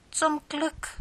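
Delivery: hoch und erleichtert ausatmend; erleichtert seufzen. Acted. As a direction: die Sorge fällt ab. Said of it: "seufzte Lieschen erleichtert". (Lieschen erleichtert nach der Antwort der Tante)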